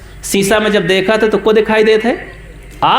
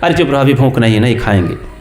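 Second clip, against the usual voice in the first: lower, irritable grumble of a moody husband; grumpy husband; 8 semitones lower, much faster than usual. Acted. Husband in a bad mood brushes off his wife, low and grumpy. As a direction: brush her off, sulky and cross. Husband refuses wife's food.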